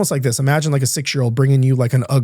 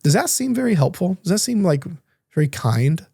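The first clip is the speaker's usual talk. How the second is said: higher, gently probing therapist; pointed therapist question; 5 semitones higher than usual. Retold or imitated. Therapist to client about his inner child, pointed and higher. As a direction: raise the voice, nudge him to see it. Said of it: "She goes".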